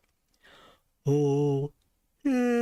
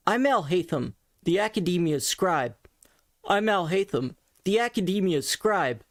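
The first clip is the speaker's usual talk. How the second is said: resonance change try; 3 semitones higher than usual. Shown as a demonstration. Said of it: "one pitch and then change the resonance".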